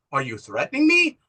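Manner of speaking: controlled, understated challenge at normal pitch; retold steely challenge. Woman facing down Carl's veiled threat, controlled and steely. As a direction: ask it firmly, holding back. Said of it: "how steely she is".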